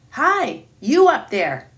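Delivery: booming lion's call up high; roaring. Acted. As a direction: bellow it up at a giant. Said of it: "he roared".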